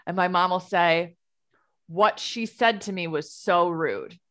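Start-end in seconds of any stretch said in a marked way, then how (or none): 1.9-4.2 deadpan news report. Retold or imitated. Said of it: "says it as though she's reporting the news".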